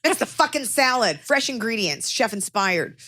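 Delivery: mock commercial read. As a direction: pitch it like a food ad. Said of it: "doing an ad for Blue Apron".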